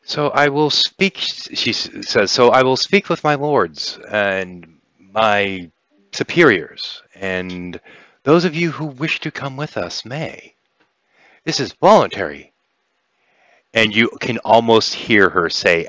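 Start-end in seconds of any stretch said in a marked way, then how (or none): 0.0-1.2 higher, slow, formal pronouncement; lightly voiced alien envoy, slow and measured; alien speaker. Game master voicing an alien to players, slow and formal. 2.3-12.5 slow, formal pronouncement with pauses; lightly voiced envoy, measured and deliberate; alien speaker. Game master voicing an alien inviting players aboard, slow and formal.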